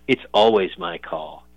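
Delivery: slow, lightly voiced action hero line; a hint of a hammy movie tough guy; cheesy movie voice. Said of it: "He said it in, like, some cheesy movie voice".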